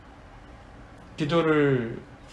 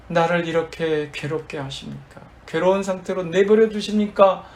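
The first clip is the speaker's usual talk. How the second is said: mildly raised, imitated lament to God; preacher voicing an anguished complaint; retold crying out; 3 semitones higher than usual. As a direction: cry out in protest, half acted. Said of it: "라고 울부짖은 거예요".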